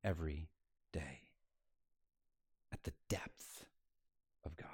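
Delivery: hushed awe. Acted. Preacher drops voice for depth.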